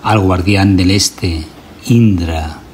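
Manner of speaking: solemn chant-like recitation in measured phrases; ritual invocation. Acted. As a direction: invoke the gods firmly, pausing for listeners to repeat. Leads a repeat-after-me ritual invocation.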